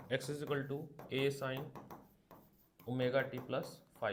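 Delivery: words drawn out one by one for writing down; teacher dictating a textbook question; slow dictation. Shown as a demonstration. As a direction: read the question out slowly for the class. Dictating the equation.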